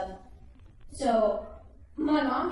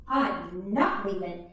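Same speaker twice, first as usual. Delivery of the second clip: slow, lower refusal; imitated stubborn mom; 3 semitones lower, much slower than usual. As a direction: dig in slowly, word by word. Tipsy mom refuses, retold.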